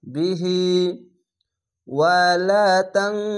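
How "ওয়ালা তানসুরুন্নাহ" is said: slow recitation, তান said nasal like ং; tajweed recitation. Shown as a demonstration. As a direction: recite ওয়ালা তানসুরুন্নাহ with a nasal তাং. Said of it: "Bangla আনস্কার মতো হবে".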